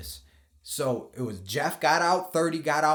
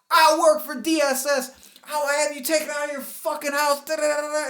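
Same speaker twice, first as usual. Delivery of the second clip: high mock voice of a furious woman; angry woman; 14 semitones higher, 5 dB louder than usual. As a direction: imitate her angry demand. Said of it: "she's like".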